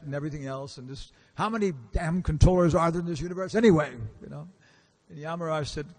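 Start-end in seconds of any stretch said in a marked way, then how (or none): 1.3-3.9 a touch of exasperation, a bit louder; mildly angry retold complaint. Yamadutas complaining to Yamaraj, mildly angry retold grumble. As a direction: grumble it like fed-up officers, half-acted.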